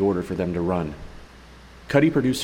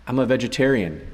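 protesting; 4 semitones higher than usual. Acted. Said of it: "Bath protested".

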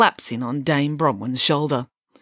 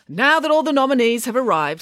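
formal announcement; 8 semitones higher, 5 dB louder than usual. A narrator's reading. Master of ceremonies addresses crowd.

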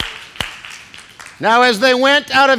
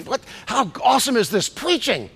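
mock aside; 7 dB quieter, faster than usual. Shown as a demonstration. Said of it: "look over and say".

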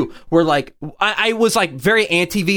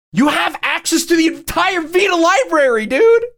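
excited; 10 semitones higher than usual. Real, not acted. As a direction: sell it like it's the best thing ever. Excited pitch for the Vita.

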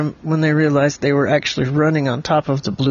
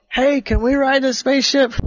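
mild mock yell; 9 semitones higher than usual. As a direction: call up eagerly to someone, as in a story. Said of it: "Oliver yelled".

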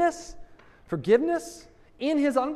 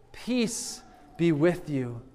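tender slow blessing; 3 semitones lower, slower than usual. Acted. Jesus's words, said tenderly.

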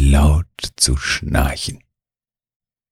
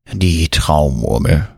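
sighing. A narrator's reading. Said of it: "seufzt Mieze".

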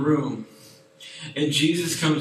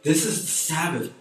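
indignant Pharisee; 4 semitones higher than usual. Retold or imitated. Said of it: "But this man said".

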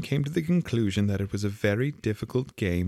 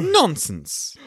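high, firm outburst; loud and decided; 6 dB louder than usual. A narrator's reading. Alice defies the Queen, loudly and decidedly. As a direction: cut in loudly, brooking no argument. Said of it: "very loudly and decidedly".

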